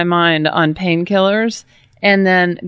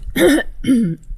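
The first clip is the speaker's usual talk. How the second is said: faking being sick; 6 semitones higher than usual. Pretend. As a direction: fake throat clear, mildly forced. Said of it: "Fake mouth clear".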